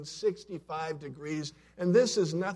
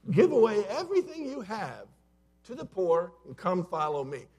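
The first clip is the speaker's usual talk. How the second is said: higher and louder, hammering give; emphatic repeat; 5 semitones higher, 5 dB louder than usual. Retold or imitated. Preacher repeating Jesus's words to stun the congregation, emphatic. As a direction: punch the repeat home so it stings.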